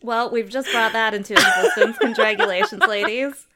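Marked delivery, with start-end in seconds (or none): 1.3-2.8 real laughter. Real, not acted. Cracking up at the group's joke.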